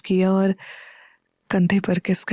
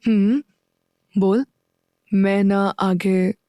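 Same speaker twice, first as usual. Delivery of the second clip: lovingly; slower than usual. A narrator's reading. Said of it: "युवी प्यार से बोला".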